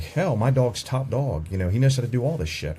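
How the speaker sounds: lightly boastful retelling of himself; mildly cocky, self-mocking quote; mock cockiness. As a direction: brag a little, mocking your younger self. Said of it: "I got a little cocky".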